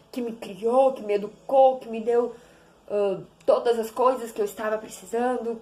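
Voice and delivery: hammed-up stiff thank-you to a father; overly formal talk with dad; mock formal speech to father. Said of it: "Tu fala assim".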